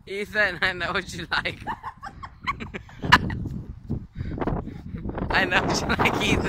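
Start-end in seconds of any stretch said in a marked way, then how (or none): 0.6-1.6 laughing. Real, not acted. Teasing friend while laughing. 1.6-5.2 squealing high laugh; high giggle. Real, not acted. Laughing at friend.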